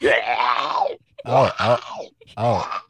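drawn-out zombie moan; zombie groan. Pretend. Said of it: "do my zombie noises".

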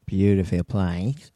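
slow, soft New Zealand accent. Shown as a demonstration. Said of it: "That was my New Zealand accent".

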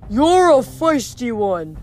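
slow, drawn-out Cyclops voice; deep bellowing monster. A narrator's reading. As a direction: bellow it slowly as a lumbering monster. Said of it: "the deep voice bellowed".

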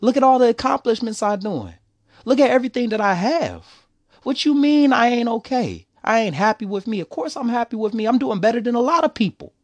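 high, loud and defensive, brushing it off; indignant denial. Retold or imitated. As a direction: act insulted that anyone would doubt you. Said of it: "I looked at him crazy 'cause I was like".

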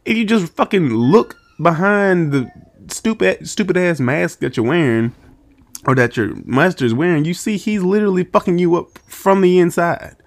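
lightly voiced annoyed brother; Kiyoshi scolding. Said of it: "we wish Kiyoshi would have just came in like".

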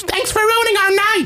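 very high, mocking imitation of a complaint; sarcastic thanks from an ejected drunk; retold heckler yelling. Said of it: "he was yelling at me now".

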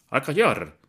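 furious shout. A narrator's reading. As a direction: roar him into silence. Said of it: "gritó el padre pataleando".

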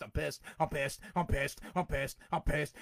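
low, quiet, repetitive grumble; real anger held down low; pissed-off repetition. Real, not acted. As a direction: repeat it over and over, low and under your breath. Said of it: "just say that I'm pissed".

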